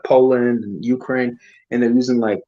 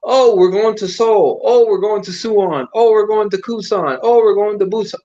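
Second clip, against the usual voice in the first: mock sightseeing excitement; 5 semitones higher than usual. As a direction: play the naive tourist listing cities, dragging it out. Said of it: "this is not like".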